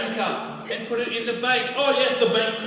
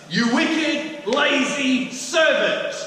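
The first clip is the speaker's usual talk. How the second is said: higher, louder, slow yell of lazy servant; yelled rebuke; 6 semitones higher, 6 dB louder, much slower than usual. Acted. Master yelling at the lazy servant. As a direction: bellow it like the angry master. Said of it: "I had to yell".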